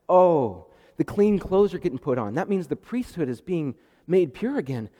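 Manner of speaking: loud delighted gasp of wonder; excited onlooker. Retold or imitated. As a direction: marvel out loud as it unfolds. Zechariah watching, amazed.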